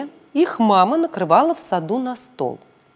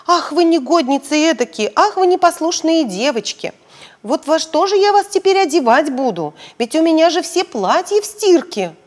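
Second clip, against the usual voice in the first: higher, scolding mother; angry mum; 6 semitones higher, 3 dB louder than usual. Acted. Mother scolding naughty daughters, mildly angry. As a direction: tell the girls off like a cross mother. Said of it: "Мама тут рассердилась".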